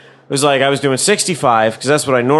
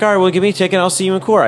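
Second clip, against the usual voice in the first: quick, higher-pitched brush-off; defiant retort; 5 semitones higher, faster than usual. Retold or imitated. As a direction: rattle it off at the officer, unfazed. Retold defiant retort to cop.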